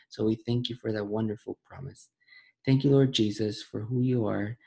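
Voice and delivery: earnest spoken prayer to the Father. Acted. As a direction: lead the group in a heartfelt prayer. Leads closing prayer.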